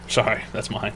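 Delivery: soft breathy whisper. Real, not acted. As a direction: whisper the confession. Whispered apology.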